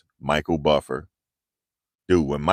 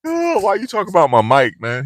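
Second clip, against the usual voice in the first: mock complaint; 13 semitones higher, 6 dB louder than usual. Mock whining at commenters.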